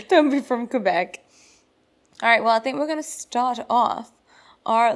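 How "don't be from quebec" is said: laughing echo. Real, not acted. Echoing joke laughing.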